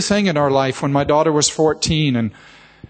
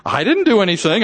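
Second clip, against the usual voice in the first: retold protesting denial; 3 semitones higher than usual. Husband denies blame to wife.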